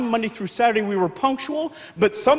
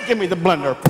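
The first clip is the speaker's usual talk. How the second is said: much lower menacing mother; threatening mom; 7 semitones lower, faster than usual. Retold or imitated. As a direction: demand it coldly. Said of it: "She got so angry".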